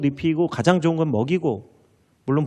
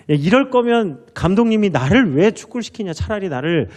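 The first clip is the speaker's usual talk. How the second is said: player's lament; 4 semitones higher than usual. Retold or imitated. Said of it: "막 이제 하소연을 했어요".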